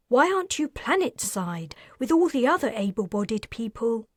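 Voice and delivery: lightly voiced woman, impatient; scornful woman voice. Heroine voiced in dialogue.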